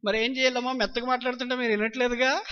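bold retort. Retold or imitated. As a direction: answer back boldly, no apology. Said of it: "గట్టిగా మాట్లాడుతున్నావేంటి". (గట్టిగా ధైర్యంగా)

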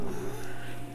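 soft breathy sigh after an outburst; quiet exhale of frustration; deflated sigh. Real, not acted. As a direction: let the air out, defeated.

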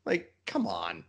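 unvoiced exasperated whisper; whispered exasperation. Real, not acted. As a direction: breathe it out in disbelief. Exasperated aside.

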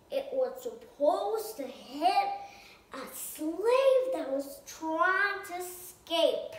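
light Southern accent, storytelling. Shown as a demonstration. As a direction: speak as Harriet Tubman with a Southern accent. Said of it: "Southern voice".

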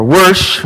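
"worsh" with an R put into "wash"; Texan pronunciation. Shown as a demonstration. Pastor trying what they said in Texas, "worsh" with an added R. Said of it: "I tried practicing this morning what they said".

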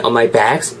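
"bags" drawn out on an open A; long vowel. Shown as a demonstration. Teacher prompts learners, drawn-out vowel. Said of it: "길게".

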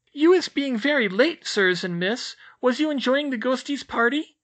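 very high, loud squeak; a tiny house-elf squeaking a greeting; squeaky elf. A narrator's reading. Elf greeting the children in a high squeak.

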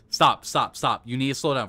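loud repeated commands, urgent; frantic yelling. Real, not acted. Player yelling at his sliding character, frantic and loud. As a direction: shout stop at the screen.

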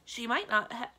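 loud, high, escalating tirade; indignant rant. A narrator's reading. Magician lists a witch's horrors, indignant ranting. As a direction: pile up complaints, rising in outrage.

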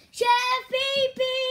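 put-on high, whiny kid voice; high kid voice calling the chef; Junior calling. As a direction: call out like a nagging kid.

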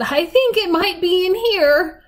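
put-on high-pitched, preoccupied old woman; a hint of a searching grandmother; lightly voiced granny. A narrator's reading. Granny hunting through couch stuffing, lightly voiced and preoccupied.

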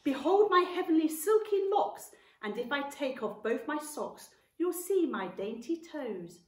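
vain aunt reciting in a high, loud voice; grand declaration. A narrator's reading. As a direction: declaim your own beauty theatrically. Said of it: "Aunt Sponge declared".

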